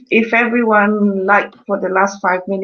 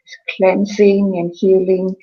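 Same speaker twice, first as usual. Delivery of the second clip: right in your ear. Acted. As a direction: gently talk them into relaxing. Leads a relaxation before sound.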